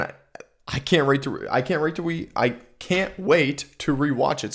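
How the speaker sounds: tripping over the words, restarting; stuttering. Real, not acted. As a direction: stumble and restart the phrase. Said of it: "I'm fucking stuttering".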